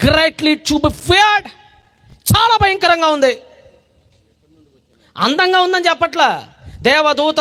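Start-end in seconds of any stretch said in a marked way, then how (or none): 0.1-1.5 solemn slow reading. Acted. Solemn English scripture.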